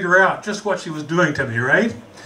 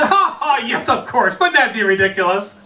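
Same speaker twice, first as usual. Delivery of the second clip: mock breezy laugh-off; 3 semitones higher than usual. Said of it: "I would have said".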